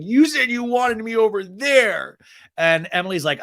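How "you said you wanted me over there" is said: loud, high, drawn-out mock complaint; not having it. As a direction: imitate a fed-up child protesting. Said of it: "Annabelle is still just not having it".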